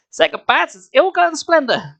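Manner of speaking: high, loud heroic taunt; defiant hero. A narrator's reading. Hero defies the mutant, high heroic taunt. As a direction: fling the heroic line.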